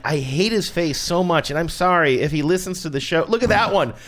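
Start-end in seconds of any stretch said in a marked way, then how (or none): 3.3-3.9 second take higher and laughing. Real, not acted. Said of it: "repeats while laughing, louder".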